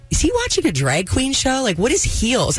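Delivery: lightly mock-bewildered; retold puzzlement. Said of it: "and I'm like".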